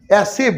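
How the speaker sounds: "অ্যাসিভ" with a marked middle consonant; stressed "sh" sound. Shown as a demonstration. Teacher shows it is not C, careful demonstration. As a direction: bring out the consonant inside "অ্যাসিভ". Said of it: "স আসছে না?".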